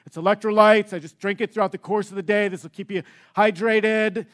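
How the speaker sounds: lightly imitated fitness trainer, brisk patter; quick, eager health-tip impression; Jeremy. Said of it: "That's how he talks".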